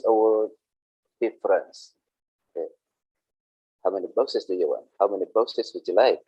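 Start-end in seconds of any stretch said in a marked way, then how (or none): 3.8-4.9 quick, plain "do you want" question; teacher contrasts the ordinary way to ask, quick and plain; ordinary blunt ask. Shown as a demonstration. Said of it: "do you want is just ordinary". 5.0-6.2 courteous "would you like" question at an even pace; teacher contrasts the polite way to ask, courteous. Shown as a demonstration. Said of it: "Would you like is very, very polite".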